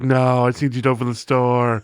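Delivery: droning boss impression; imitated former boss. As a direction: drone it out like the old boss. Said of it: "he used to talk like this".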